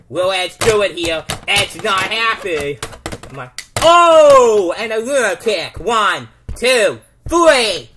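loud ringside call with a yelled count; excited play-by-play. Pretend. Commentator calling the match, excited. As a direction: call the finish like it's live.

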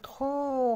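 long, held خو with rounded lips; rounded damma sound. Shown as a demonstration. Teacher showing damma on the first letter of bat, drawn-out خو. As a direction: stretch خو into one long "khoo". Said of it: "لما نضم بقنا".

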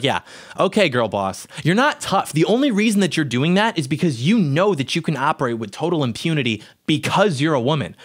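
mildly scornful mock retort; eye-rolling dismissal. Man answering a woman yelling at a protester, eye-rolling scorn. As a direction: brush her off with an eye roll in the voice. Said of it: "I just rolled my eyes at this".

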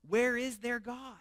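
slow taunting challenge, rising high on where; mock the faithful, stretching each word; persecuting voice. Preacher voicing the scoffing nations, slow taunting voice. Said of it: "that persecuting voice".

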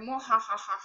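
hammed-up villain cackle; mock evil laugh.

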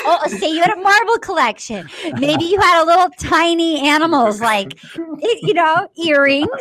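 giggling through the words; laughing. Real, not acted. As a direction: laugh while you list them. Laughing through her examples.

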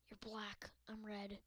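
whispered aside. Acted. Gamer whispering at the black ball. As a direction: say it under the breath.

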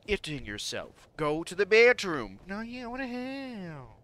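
high falsetto mock outrage; very high put-on voice, trailing wails; imitating a woman. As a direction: squeal it like a scandalized impression. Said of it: "'cause she swears".

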